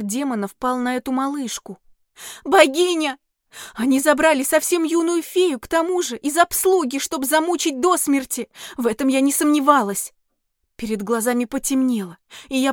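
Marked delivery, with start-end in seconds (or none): 2.4-10.1 raised, shocked inner cry; horrified. Acted. Heroine realizes the fairy will be tortured, horrified cry. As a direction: horror rising in her chest.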